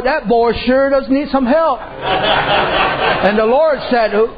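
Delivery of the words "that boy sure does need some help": slow, higher, laughing through it; preacher amused at the henpecked husband, laughing. Real, not acted. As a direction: chuckle while you say it. Preacher laughing at his own story.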